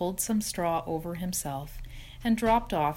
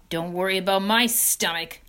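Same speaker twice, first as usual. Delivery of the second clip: snarled; 5 dB louder than usual. Acted. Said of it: "snarled Templeton".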